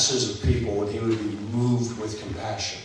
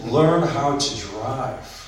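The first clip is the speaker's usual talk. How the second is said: mock road rage; slower than usual. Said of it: "it's moved with frustration".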